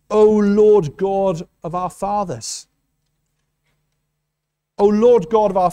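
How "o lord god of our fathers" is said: put-on slow, reverent reading of an old prayer; solemn slow prayer. Preacher reads Jehoshaphat's prayer to the congregation, slow and reverent. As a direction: let each word of the prayer land slowly and solemnly. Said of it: "He says".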